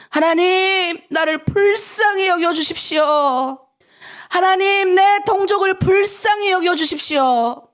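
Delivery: second, climbing take of the prayer; rising plea. Shown as a demonstration. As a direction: pray it with growing urgency. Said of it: "우리 한번 따라해볼까요?".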